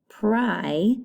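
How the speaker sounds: pri said with a long I "pry"; long I demo. Shown as a demonstration. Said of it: "Listen to the I".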